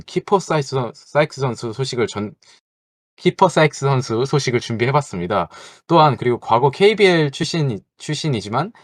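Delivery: tripping over a name and restarting; nervous stumbling. Real, not acted. Host introducing player news to co-hosts, nervously stumbling over words. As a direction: stumble through the news read, breaking off mid-word. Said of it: "말을 많이 더듬으시네요".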